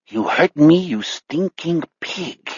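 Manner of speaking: slow, subdued alien German; outer space German accent. Acted. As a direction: drag it out, fading, in a mutant German accent. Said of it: "some kind of outer space German accent".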